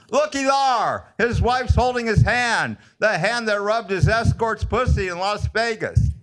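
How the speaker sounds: high-pitched heckler's call; retold holler. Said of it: "And I hollered".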